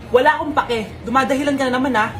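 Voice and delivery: harsh scolding mom. Acted. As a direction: bark orders at a lazy child. Harsh mother scolding sick child.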